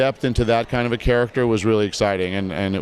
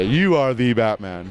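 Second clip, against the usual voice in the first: slow, solemn homage; bow to him with your voice; reverent tribute. Retold or imitated. Voice actors honoring Kevin, slow reverent tribute. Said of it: "We all bow to him and say".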